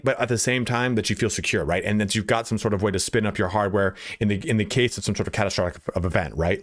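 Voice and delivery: imitating a pushy pitch ending on "right?"; lightly mocked nonstop sales patter; fast salesperson. Shown as a demonstration. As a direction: rattle on, tacking "right?" onto each phrase. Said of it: "they needed to end their sentences with the word right".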